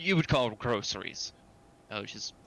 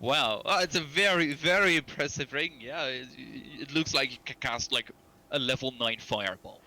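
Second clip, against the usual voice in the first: mock amazed; 3 semitones higher than usual. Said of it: "you just look at the ring and say".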